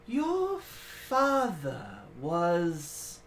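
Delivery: slow, measured and solemn; lightly voiced ancient guardian; ancient creature voice. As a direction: weigh every word slowly.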